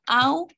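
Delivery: "auto" broken after AU; split into syllables. Shown as a demonstration. Teacher showing pupils how to divide the word, split into syllables. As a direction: say "auto" in two parts, AU held apart from TO. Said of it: "¿Cómo separaríamos?".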